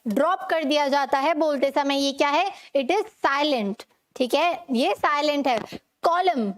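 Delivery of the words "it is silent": slow emphatic statement. Shown as a demonstration. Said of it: "teacher stating a rule slowly".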